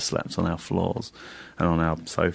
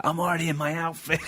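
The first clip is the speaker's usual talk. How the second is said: put-on higher, eager childlike voice with a laugh; childlike excitement; 9 semitones higher than usual. Friend already in costume hours early, childlike glee. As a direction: announce it like an excited kid. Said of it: "Like a child".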